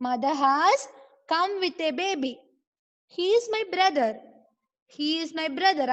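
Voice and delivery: slow, drawn-out read-aloud for learners; model reading. Shown as a demonstration. Teacher reading the story to online pupils, slow model reading. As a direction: read each word slowly with long stretched vowels.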